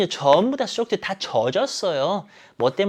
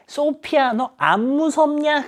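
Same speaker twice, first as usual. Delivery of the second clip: much higher, stretched-out call; mock calling out; 11 semitones higher, slower than usual. Mia asking Sophia if she is scared, mock calling out. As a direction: call the name high, as a mock shout. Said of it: "소피아에게 소리쳤기 때문에".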